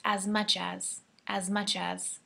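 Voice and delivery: as much as run together quickly; quick reduced as much as; fast as much as. Shown as a demonstration. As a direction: rush as much as as one word. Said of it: "we're gonna say that pretty fast".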